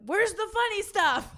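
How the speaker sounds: high, slowed, laughing put-on voice; mock Quebec audience. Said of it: "the people in Quebec are like".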